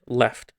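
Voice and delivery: "left" with a light L on the tongue tip. Shown as a demonstration. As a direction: keep the L of "left" clear and forward. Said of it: "a light L would be the word".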